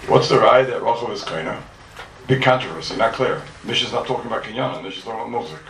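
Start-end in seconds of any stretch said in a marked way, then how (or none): 0.1-1.6 slow, deliberate question, every word spaced; very slowly. Shown as a demonstration. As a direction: spell it out slowly for the class. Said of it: "Very slowly, bear with me now".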